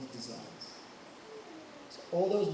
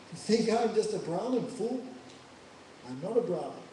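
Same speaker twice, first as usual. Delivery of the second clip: shouting; 3 semitones higher than usual. Acted. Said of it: "like this shouting".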